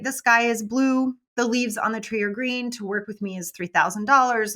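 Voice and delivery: plain factual, unhurried; matter-of-fact statement. Shown as a demonstration. Coach showing how to state a price, matter-of-fact. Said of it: "you say it just like a fact".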